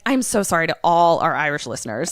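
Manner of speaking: hammed-up bad Irish accent; terrible Irish accent. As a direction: apologise in a badly faked Irish accent. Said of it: "my accent is going to be terrible".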